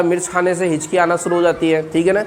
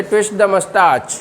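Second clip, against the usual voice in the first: very slow, word by word for students; slow teaching demo; much slower than usual. Shown as a demonstration. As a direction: drag it out for learners to repeat. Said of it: "बोले".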